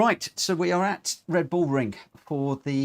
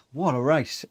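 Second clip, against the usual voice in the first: ordinary talk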